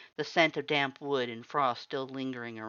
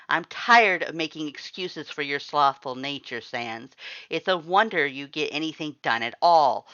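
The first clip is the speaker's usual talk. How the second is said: louder cold reprimand; stern scolding; 3 semitones higher, 8 dB louder than usual. A narrator's reading. The lord scolds Sans for his laziness. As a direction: lash him with contempt.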